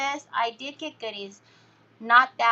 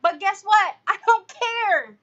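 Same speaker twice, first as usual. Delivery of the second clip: laughing; 7 semitones higher, 7 dB louder than usual. Real, not acted. Defiant laugh at critics.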